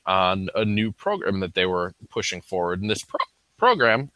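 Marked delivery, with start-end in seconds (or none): 2.8-4.1 hiccup breaks the word. Real, not acted. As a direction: talk through a hiccup, word cut off. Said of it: "excuse the hiccups again".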